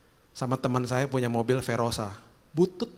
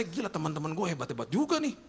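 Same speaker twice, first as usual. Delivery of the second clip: higher, louder gushing at luxury cars; amazed inner voice; 7 semitones higher, 3 dB louder than usual. Retold or imitated. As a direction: marvel at the cars, half-joking. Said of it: "Dalam hati saya".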